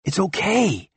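high but no longer shouting; calming, at moderate volume. A narrator's reading. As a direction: ease down from a yell to reassure. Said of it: "added in a more moderate tone".

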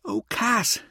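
high-pitched, let-down sigh; disappointed, pitched well up; deflated sigh. A narrator's reading. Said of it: "Mirza sighed as if deflated".

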